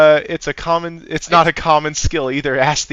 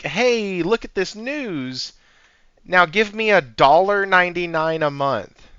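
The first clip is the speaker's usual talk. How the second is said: mock news outlet; 3 semitones higher than usual. Mocking a news site asking for money, salesy. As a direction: parody a greedy paywall. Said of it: "when they're like".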